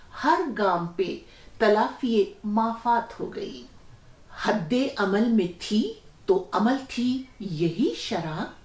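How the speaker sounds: measured verse with lingering phrase endings; ghazal recitation. Acted. Host carrying on the poet's ghazal for listeners, verse recitation.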